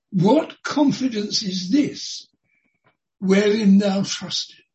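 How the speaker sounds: loud, slow, commanding call; Rabshakeh's loud challenge. Acted. The envoy shouting his taunt at Hezekiah's men, loud and slow. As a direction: declaim it slowly and loudly across the wall. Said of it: "But he shouts out loudly".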